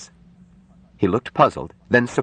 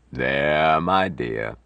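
gentle; 2 semitones lower, much slower than usual. Acted. Doctor comforts the sobbing nurse, gently. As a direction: console her tenderly. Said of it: "Harshaw said gently".

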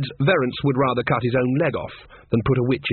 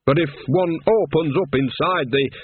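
snapping; 4 semitones higher than usual. A narrator's reading. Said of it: "Magrat snapped".

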